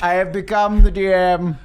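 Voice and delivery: mock grandeur. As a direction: announce it like destiny. Grand proclamation continues.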